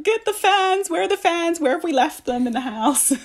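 high, loud flustered cry for the fans; mock panic. Retelling Londoners caught out by sudden heat, mock panic. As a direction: play everyone scrambling in the heat, half laughing. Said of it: "everyone's like".

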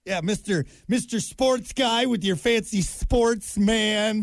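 slow, high, goofy singsong; exaggerated cartoon intonation. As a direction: stretch it out like a cartoon. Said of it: "You fall on your head or something?".

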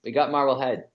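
casual local Boston accent. Shown as a demonstration. Guest tells the host about hometown rivals, Boston accent. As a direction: keep the Boston accent going in easy chat. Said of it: "Give me your best Boston accent".

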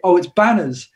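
put-on "Banners" in the speaker's own English accent. British singer naming his band to Americans, English accent. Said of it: "I've got such an English accent".

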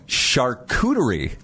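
Charcuterie said slowly, shar-KOO-duh-ree; careful correct pronunciation. Shown as a demonstration. Host tries the next word, Charcuterie carefully as shar-koo-duh-ree. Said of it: "that's how you correctly pronounce it".

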